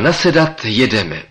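loud, high rallying call; the professor calls him aboard, loud and high. Acted. Professor shouts an order to mount up. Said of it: "Pak zvolal".

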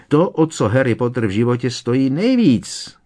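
high wailing elf voice; a little elf keening the bad news; wailing house-elf. A narrator's reading. Dobby wails at Harry about the stolen treasure. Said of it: "kvílel Dobby".

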